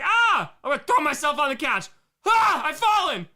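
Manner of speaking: high, loud mock wail; mock childish drama. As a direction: cry out like a toddler staging a fall. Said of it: "I was like".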